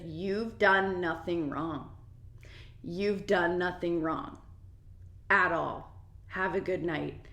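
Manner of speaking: slow, deliberate, evenly spaced words; earnest reassurance. Retold or imitated. Shopper comforting the mistreated employee, slow sincere reassurance. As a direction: reassure firmly, leaving pauses.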